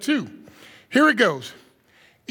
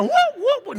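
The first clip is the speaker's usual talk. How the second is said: mock whoop; 12 semitones higher, faster than usual. Shown as a demonstration. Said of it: "that's not hooping".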